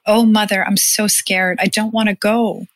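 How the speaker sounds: put-on mild sob of a frightened boy; sobbing child. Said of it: "He sobbed against my neck".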